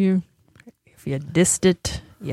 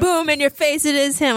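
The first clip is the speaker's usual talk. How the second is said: gloating; 8 semitones higher than usual. Retold or imitated. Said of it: "he was like".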